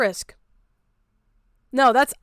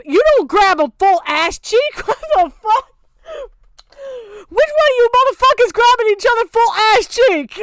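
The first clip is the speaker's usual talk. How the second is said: incredulous ranting; 10 semitones higher, 5 dB louder than usual. Real, not acted. Keeps ranting at the comic, laughing.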